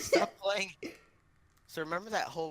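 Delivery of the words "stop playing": loud annoyed order; sharp loud scolding. Real, not acted. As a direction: snap stop playing loudly. Scolds friend gaming on call.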